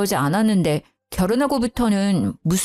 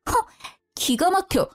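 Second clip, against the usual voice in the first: tearful disbelief; 7 semitones higher than usual. Acted. Wife stunned during quarrel.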